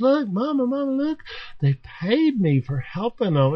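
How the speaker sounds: put-on high, excited little girl telling mama; child's voice. Little girl showing her mother her pay. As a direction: squeal it like a proud six-year-old.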